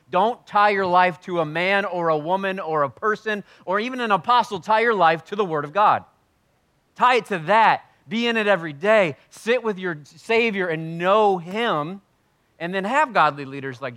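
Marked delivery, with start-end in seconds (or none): 0.1-12.0 loud, high preaching exhortation; yelling at the church. Acted. Pastor yelling at his congregation to cling to scripture. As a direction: hammer it home at full force. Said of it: "and I yell at you".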